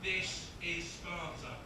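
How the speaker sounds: slow, even walk-through of the line; unhurried, unshouted demonstration; slow rehearsal cue. Shown as a demonstration. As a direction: spell the line out slowly before the count. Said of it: "After three".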